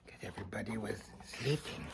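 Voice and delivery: quick murmured aside to the listeners; soft, rushed side comment; hushed aside. Real, not acted. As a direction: drop out of the story and mutter it fast. Quiet fast aside to listeners.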